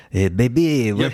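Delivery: put-on heavy, laid-on Italian accent. Describing how Rinaldi talks in the movie: Rinaldi's heavy Italian accent. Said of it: "this heavy Italian accent".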